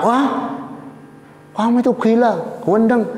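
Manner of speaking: very high, shocked scolding; appalled mock outcry. Princess seeing the filth-covered man, appalled. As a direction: shriek it in comic horror.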